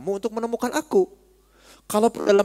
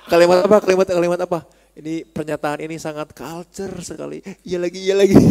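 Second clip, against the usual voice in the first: louder, laughing eager questions; excited pestering; 3 dB louder than usual. Retold or imitated. Companions loudly pestering Anas, laughing. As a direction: bounce with impatient curiosity.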